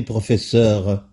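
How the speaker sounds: laughing. Real, not acted. Host laughs while addressing guest.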